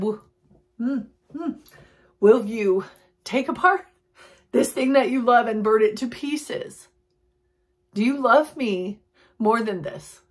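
hesitant musing hums before asking; mock pondering voice. God asking Abraham, in a musing pondering voice. Voicing God's hesitant question.

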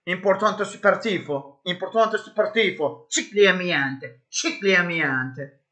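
high cod Italian chant; playful fake Italian, slowing down; mock Italian.

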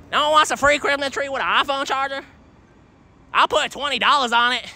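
eager sales pitch. Real, not acted.

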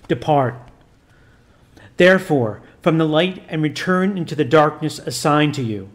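a lightly voiced priest commanding solemnly; stern priest. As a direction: intone it like an exorcist giving orders. Priest rebukes the demon.

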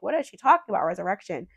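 mock puzzled outsider; baffled outsider. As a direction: voice the world's confusion.

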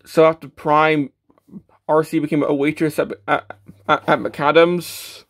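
tripping over the words; stammering, stuck on "at"; stumbling. Real, not acted. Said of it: "I can't even speak".

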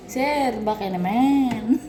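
slow coaxing plea to the boss; slow, coaxing "please, sir"; drawn-out plea. Retold or imitated. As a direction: stretch it out, begging to be let go. Pleading with the boss to go home.

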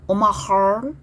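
"heart" with the T left unreleased; silent final T. Shown as a demonstration. Teacher models "heart" for students, final T silent. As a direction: swallow the last T of "heart". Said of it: "T로 끝난 단어는 묵음으로 약하게".

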